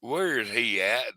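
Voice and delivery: slow, drawn-out Southern "Where is he at?"; Southern accent. Retold or imitated. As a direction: imitate a Southern boss, slow. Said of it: "Got the old Southern".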